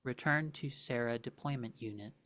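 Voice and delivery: flat robotic warning readout; mechanical voice. Acted. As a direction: deliver it like a machine directive. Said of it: "the mechanical voice calls out".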